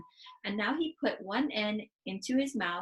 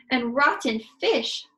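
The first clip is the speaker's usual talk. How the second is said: gasped; 5 semitones higher, 9 dB louder than usual. Acted. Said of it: "she gasped".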